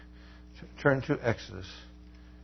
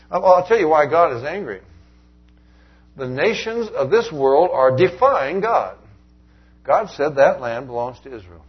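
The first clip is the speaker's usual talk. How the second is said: preaching at full force; 4 semitones higher, 9 dB louder than usual. Acted. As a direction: declare God's anger like a warning. Preacher warns of God's anger.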